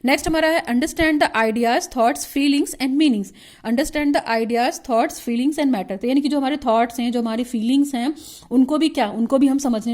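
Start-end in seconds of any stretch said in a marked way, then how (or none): 0.7-6.0 reads the point out slowly, word by word; slow dictation. Shown as a demonstration. Teacher dictating a syllabus point to students, slow and measured.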